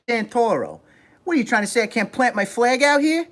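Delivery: high-pitched, indignant wiseguy voice; high New York tough-guy impression; Joe Pesci. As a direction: challenge them like a New York mobster. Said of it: "you're pretending to be Joe Pesci".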